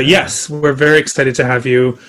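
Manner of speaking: normal talking voice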